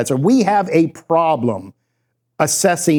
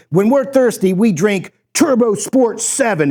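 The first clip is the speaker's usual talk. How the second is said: higher, slowing mock tough-guy slogan; 4 semitones higher than usual. Street team pitching soda in a commercial, mock tough. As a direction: imitate a street team's ad pitch. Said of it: "to really look tough".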